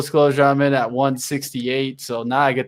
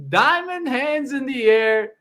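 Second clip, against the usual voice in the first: high, slow diamond-hands chant; crypto bro; 8 semitones higher, slower than usual. Acted. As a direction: call it out like a stock-forum hype bro. Bragging about holding the stock.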